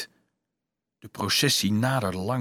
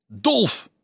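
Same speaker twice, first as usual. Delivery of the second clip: calling his name; 9 semitones higher than usual. A narrator's reading. Someone calling the dazed Dolf by name, high rising call.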